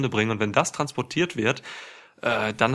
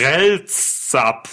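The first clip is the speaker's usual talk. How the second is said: name spelled in reverse; backwards speech; 3 semitones higher, 5 dB louder than usual. Shown as a demonstration. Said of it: "Und jetzt Shayna Baszler, bitte". (Name rückwärts gesprochen)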